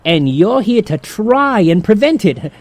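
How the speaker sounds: weight on the word try to mock the attempt; sarcastic emphasis on try; stress on try. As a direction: lean on try so it sounds doomed. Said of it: "Note the emphasis on the word try".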